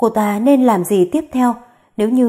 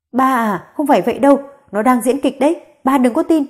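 protesting; 3 semitones higher than usual. Acted. Mother-in-law protesting, denying.

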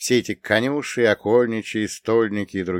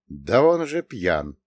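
slow startled exclamation; blurted out; slower than usual. Acted. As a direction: let it slip out in shock. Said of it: "вырвалось из меня".

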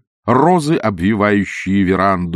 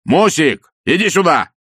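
loud, raised call for help; frightened shout; 8 semitones higher, 5 dB louder than usual. Acted. Scared engineer calling his wife to come help. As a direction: cry out in alarm. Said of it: "закричал испуганный инженер".

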